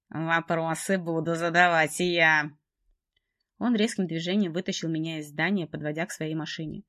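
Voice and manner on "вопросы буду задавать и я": cold menacing man. Acted. Trevor coldly threatens heroine.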